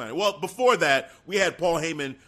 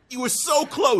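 teasing shout; 8 semitones higher than usual. Real, not acted. Teasing co-host about near-miss.

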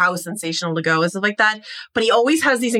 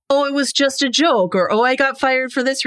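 higher-pitched mock excuses; brushing it off; 6 semitones higher than usual. Son making excuses to his father, imitated brush-off. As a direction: toss off each excuse lightly. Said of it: "sort of brushed off as".

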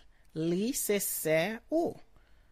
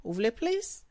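"plus" rises high, louder, as a question; question tune; 6 semitones higher, 4 dB louder, faster than usual. Shown as a demonstration. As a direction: end "Vous voulez plus?" on a rising question lift. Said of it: "End it like a question".

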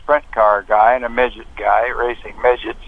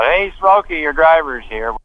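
mock yell; 5 semitones higher than usual. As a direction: imitate someone calling across the shop. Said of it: "And he yelled out".

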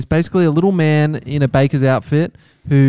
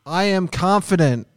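confident affirmation; 4 semitones higher, 5 dB quieter than usual. Shown as a demonstration. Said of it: "this is called the three C's".

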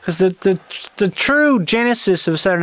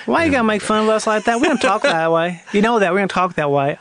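mildly effeminate Southern voice; put-on Southern accent. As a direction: protest in a light Southern accent. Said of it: "You're doing effeminate".

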